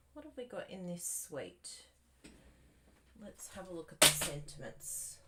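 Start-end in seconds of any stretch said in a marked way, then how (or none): none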